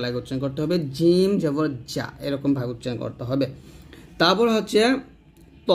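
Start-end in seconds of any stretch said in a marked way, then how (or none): 1.0-2.1 জিম জবর জা drawn out slowly from the palate; slow careful palatal জা; slow jim. Shown as a demonstration. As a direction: stretch it out. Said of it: "জিহ্বার মধ্যখান ... তালুর সঙ্গে".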